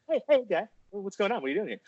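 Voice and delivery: high, sing-song host voice; Dateline host. Retold or imitated. Chris Hansen type on Dateline confronting him, high mock tone. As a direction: play the smug TV host catching someone. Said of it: "what's his name from Dateline".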